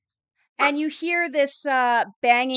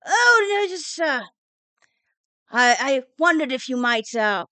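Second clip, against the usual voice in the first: put-on condescending old dean; 3 dB louder than usual. Dean patronizes the retiring professor about her old bones, condescending. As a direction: talk down to her like a fussy elder. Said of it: "rather condescendingly".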